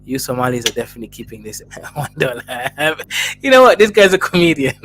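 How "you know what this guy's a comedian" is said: excited. Real, not acted. Delighted reaction to a donation.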